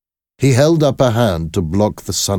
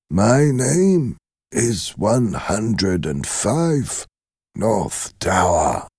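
put-on dazed old prisoner; 3 semitones higher, much slower than usual. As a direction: recite it like a number learned in prison. The prisoner gives his cell number.

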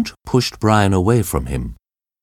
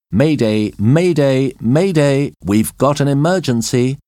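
urgent radio call; 7 semitones higher, 3 dB louder than usual. A narrator's reading. Pilot radios for help.

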